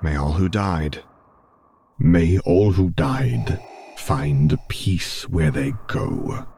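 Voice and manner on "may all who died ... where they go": slow, drawn-out prayer in a character voice; Vader. A narrator's reading. Vader praying alongside Luke, slow intoned character voice. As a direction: intone it slowly, fading at the end. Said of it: "Vader whispered alongside him".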